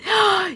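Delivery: high, short gasp; sudden intake of breath; shocked gasp. Real, not acted. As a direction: gasp in mock alarm. Realising a viewer dozed off.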